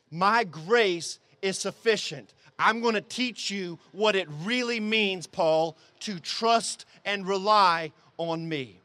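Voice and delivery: a patient teacher's weighty reassurance; lightly voiced God. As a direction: give each phrase room, as God answering. Voices God answering Paul's plea.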